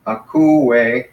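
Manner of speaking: "Akouo" held out in separate syllables. Shown as a demonstration. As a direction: sound out "Akouo" as a-kou-o. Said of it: "so these are treated as two".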